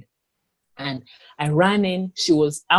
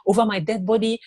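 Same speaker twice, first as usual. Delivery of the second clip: "Over my dead body" pitched higher in a retold child's protest; defiant child's cry; 4 semitones higher than usual. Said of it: "I was like".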